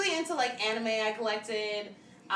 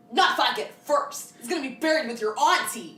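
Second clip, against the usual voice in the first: retold corny line; 2 semitones higher, 3 dB louder than usual. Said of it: "there's that one point where he was like".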